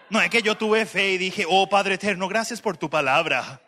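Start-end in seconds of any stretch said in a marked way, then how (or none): 1.5-3.6 mock neutral Spanish of dubbed films; movie-dub neutral Spanish. Preacher thanking God, in mock neutral dubbing Spanish. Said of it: "el idioma neutral de las películas".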